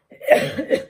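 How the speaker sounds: dry cough from dust in the throat. Real, not acted. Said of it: "Not sneeze, cough".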